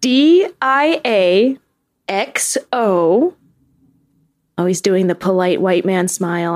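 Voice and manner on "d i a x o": slow letter-by-letter spelling, a bit higher. Shown as a demonstration. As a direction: spell D I A out slowly, one letter at a time. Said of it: "this is how I think it's spelled".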